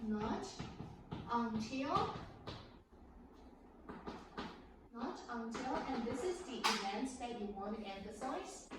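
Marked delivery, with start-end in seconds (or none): 0.1-5.7 teacher stressing the key phrase Not until. Shown as a demonstration. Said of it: "would write it like this".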